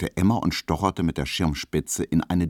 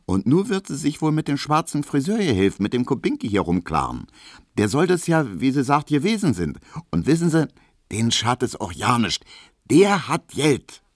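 lightly voiced Berlin landlady, higher; chatty Berlin landlady, pitched up; landlady surprised by a fancy visitor, higher chatter; Frau Piesecke; 9 semitones higher than usual.

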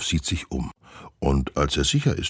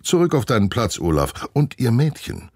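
stern teacher. Acted. Teacher scolds pupils.

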